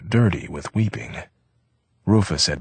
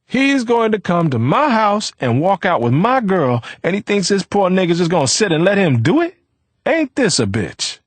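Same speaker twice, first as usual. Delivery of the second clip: high, loud mocking cry; bitter laughing cry; 5 dB louder than usual. A narrator's reading. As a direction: cry it to the ceiling in bitter scorn. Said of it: "Rufus cried to the ceiling".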